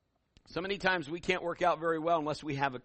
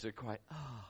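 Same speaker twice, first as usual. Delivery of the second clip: hushed stunned oh; 7 semitones lower, 14 dB quieter than usual. Retold or imitated. Congregation stunned by demon warning.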